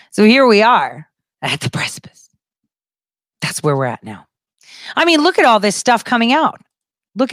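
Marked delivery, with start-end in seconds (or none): 0.1-4.3 hushed, voiceless line; dramatic whisper. Acted. Announcing the moment of crisis to viewers, dramatic whisper. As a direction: whisper it like a grave reveal.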